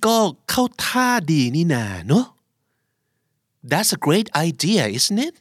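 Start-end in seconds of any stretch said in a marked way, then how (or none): 3.7-5.3 isn't it jumping high on it; rising question tag. Shown as a demonstration. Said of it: "การเน้นเสียง".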